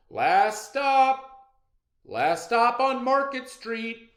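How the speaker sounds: loud, high call down the bus. A narrator's reading. Driver calling out the final stop to passengers. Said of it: "Mister Dennis called".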